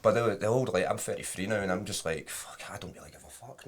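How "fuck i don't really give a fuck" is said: muttered aside. Retold or imitated. Retold carefree attitude.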